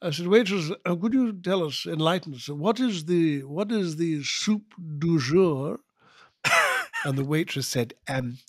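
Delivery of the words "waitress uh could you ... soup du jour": Edinburgh lawyer, affected fronted vowels; umlaut over every vowel. Acted. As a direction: put on a precious Edinburgh lawyer's accent. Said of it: "in this voice which a friend".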